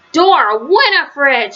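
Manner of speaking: slow stern scold, full name drawn out. Acted. Grandma catching DW faking, slow stern scolding. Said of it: "she scolded".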